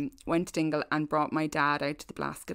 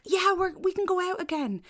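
imitating excited people; 12 semitones higher than usual. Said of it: "people are only like".

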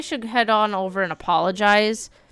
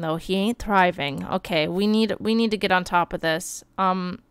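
normal talking voice

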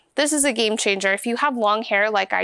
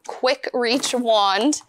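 slow tongue twister; much slower than usual. Real, not acted. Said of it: "Say that twelve times fast".

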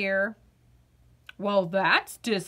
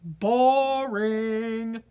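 bored potato. Acted. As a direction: sound like a vegetable with no fun left. Potato dismisses spinning.

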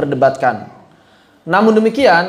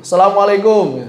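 Arabic greeting said the Indonesian way; Indonesian-accented salam. Shown as a demonstration. Teacher imitates Arabs copying Indonesians, Indonesian-accented greeting. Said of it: "Kadang-kadang suka ngikutin begitu".

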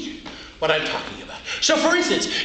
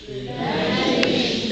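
slow hushed Imagination; slow demo; slower than usual. Shown as a demonstration. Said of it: "and say".

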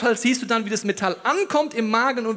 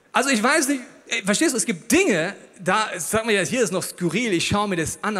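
normal talking voice

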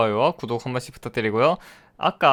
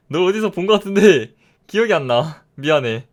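louder repeat; 3 semitones higher, 6 dB louder than usual. Acted. Gamer repeating his line to the mob, now louder. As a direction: push it out louder.

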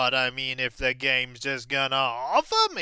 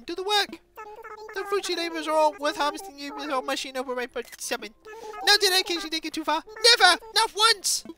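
put-on boisterous old villager; 13 semitones higher, faster than usual. Voices villager character.

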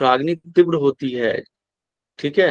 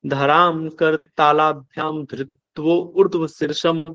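slow, level chant-like reading; Sanskrit verse recitation; 3 semitones higher, slower than usual. Acted. Teacher reciting the cobra pose shloka for students, slow measured recitation. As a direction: draw out each Sanskrit word on a steady tone.

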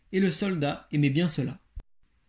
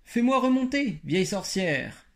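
higher call up from the bottom of a hole, slowing at the end; 5 semitones higher than usual. Acted. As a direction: shout up the tree to the old witch. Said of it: "et cria du bas de l'arbre".

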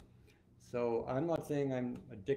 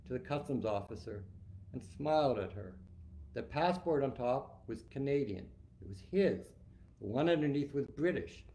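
measured read-aloud of a novel opening; lightly dramatic reading of his own prose; story narration. A narrator's reading. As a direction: read it like an author at a book talk.

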